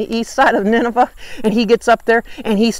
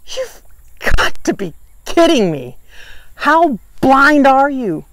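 you've got to be kidding me, squeaky high on You've, then slowing down; exasperated disbelief; 4 semitones higher than usual. Acted. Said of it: "he lets out like a".

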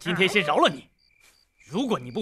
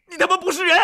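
furious curse; 12 semitones higher, 5 dB louder than usual. Acted. Boy curses the bullies.

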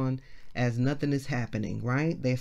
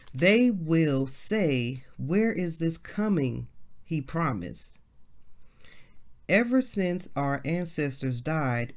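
scripture reading; slower than usual. Acted. Reads scripture aloud slowly.

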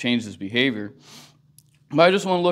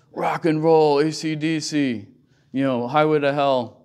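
mock cool rocker; 4 semitones higher, 4 dB louder than usual. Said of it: "he was all cool guy".

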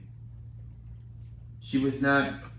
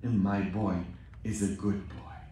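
soft weeping plea; 4 semitones lower, 4 dB quieter than usual. Retold or imitated. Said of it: "crying and praying and saying".

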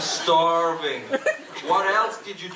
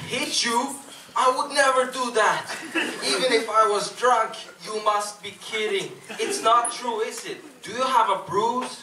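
shocked; 4 semitones higher than usual. Acted. Shocked denial, voice goes higher.

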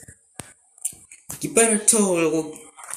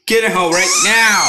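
louder, higher furious order; angry shout; 4 semitones higher, 8 dB louder than usual. Pretend. Kid playing parent grounding pumpkin, angry shout. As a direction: yell it like a cross parent.

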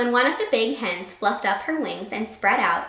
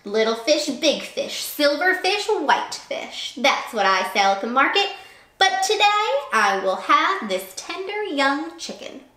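boasting fisherman; 5 semitones higher, 3 dB louder than usual. Acted. Fisherman boasting about his catch.

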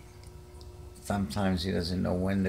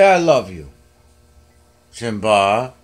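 coaxing the cat; 8 dB louder than usual. Real, not acted.

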